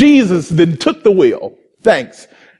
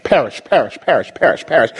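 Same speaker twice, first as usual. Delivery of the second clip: fading echo; 7 semitones lower, faster than usual. Real, not acted. Repeated word fading away.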